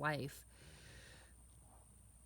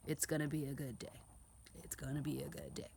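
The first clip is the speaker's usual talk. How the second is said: repeated affirmation; 3 semitones lower, 6 dB quieter than usual. Shown as a demonstration. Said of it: "I just keep saying that".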